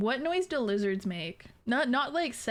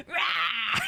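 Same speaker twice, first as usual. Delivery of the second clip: half-hearted little roar; attempted roar. Shown as a demonstration. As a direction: roar on request, not at all scary. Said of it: "Do the roar".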